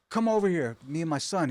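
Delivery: high, urgent beckoning, retold; losing it. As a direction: imitate an excited man calling people over. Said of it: "start losing his shit".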